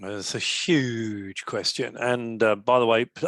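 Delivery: slight lisp, numb mouth; numb from the dentist. Real, not acted. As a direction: talk with half your mouth numb. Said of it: "excuse me if I'm lisping a bit".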